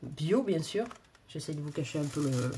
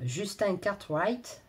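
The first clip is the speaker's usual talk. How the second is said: English accent; 2 semitones higher, much slower than usual. Real, not acted. To her viewers, she catches herself on the author's name: slow English accent. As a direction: drop into an English accent on "Cartwright". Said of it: "j'ai un accent anglais".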